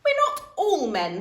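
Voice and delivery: giggling objection; laughing protest. A narrator's reading. Daughter correcting dad, laughing.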